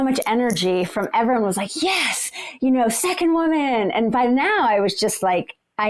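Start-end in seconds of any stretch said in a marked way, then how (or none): 1.8-3.9 imitated cheer. Spectators cheering her on.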